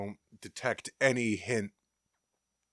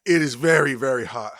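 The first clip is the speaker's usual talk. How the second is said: louder, strained from burning mouth; loud pained exclaim; 3 semitones higher, 11 dB louder than usual. Real, not acted. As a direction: cry out at the heat. Pain from hot fudge.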